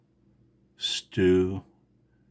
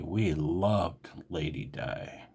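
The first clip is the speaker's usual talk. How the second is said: softer and slower, a wistful sigh of a line; sadly; 2 semitones lower, 4 dB quieter, slower than usual. Real, not acted. To viewers, mourning the Queen, soft and sad. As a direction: let the loss sink into it quietly. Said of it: "I'm very emotional right now".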